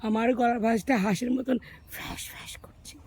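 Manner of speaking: raspy hoarse throat from a cold. Real, not acted. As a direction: talk through a sore, rasping throat. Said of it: "আমার গলাটা ধরে গেছে".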